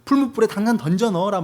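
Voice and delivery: lightly voiced commanding king; king's command. King ordering them into the furnace, mock command.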